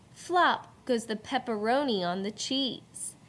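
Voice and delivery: beat-led read-aloud with sound words popped up; rhythmic poem reading. Shown as a demonstration. Teacher reads poem to class with bouncy rhythm. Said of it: "Listen to the beat as the teacher reads this poem".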